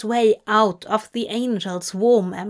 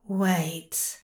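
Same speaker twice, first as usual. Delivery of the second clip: soft, faltering interjection; taken aback; 3 semitones lower, 6 dB quieter than usual. Acted. Angel hearing Crowley beg, taken aback. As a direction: cut in softly, stunned.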